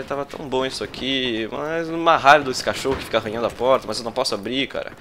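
ordinary talk

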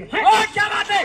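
high, slow delighted exclamation; excited cheer. Real, not acted. Host cheering the contestant's line, excited and high. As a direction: praise her loudly.

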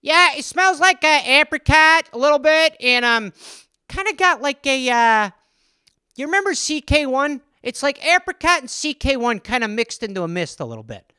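breezy guy describing a scent; perfume ad dude. Pretend. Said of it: "some guy who's just like".

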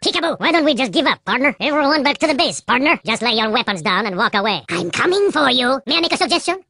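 suave, sneering French spy voice; a smug French assassin savouring every taunt; French-accented spy. Acted. TF2 Spy voice lines throughout.

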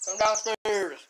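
loud high call upstairs; yelling across the room. Real, not acted. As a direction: shout for her to come down. Calling sister from downstairs.

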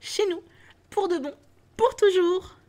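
put-on a little girl who can't contain her joy; overflowing with joy. Fanny telling her brother he's coming home, high and overjoyed. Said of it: "débordante de joie".

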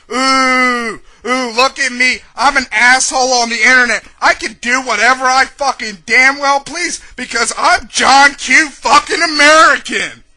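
mock a smug internet troll; mocking imitation.

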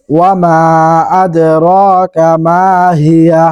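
slow chanted Quranic reading; unhurried tilawah; slow recitation. Shown as a demonstration. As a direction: recite slowly, drawing out আদরাকা. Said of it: "teacher recites the verse".

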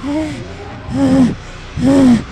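high, loud mocking grunts of eh; imitating a rapper. Mocking the rapper's intro to viewers, high loud grunts. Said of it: "he's like".

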